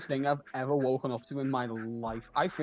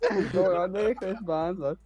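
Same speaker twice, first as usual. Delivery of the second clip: loud, raised Scouse greeting; 5 semitones higher, 3 dB louder than usual. Retold or imitated. Repeating the greeting for laughs, in broad loud Scouse. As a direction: play up the Scouse, higher and louder. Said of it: "you said that so Scouse".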